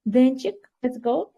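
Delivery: normal talking voice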